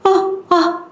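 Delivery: high, soft strained grunts; an old patient who can't get words out; straining old man, softly; speechless old man. Retold or imitated. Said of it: "아니라는 듯이 이렇게 하면서 말을 못해".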